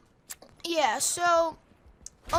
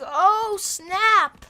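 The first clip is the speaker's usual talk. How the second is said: crowd's oh snap; 5 semitones higher, 7 dB louder than usual. Retold or imitated. Crowd reacting to roast.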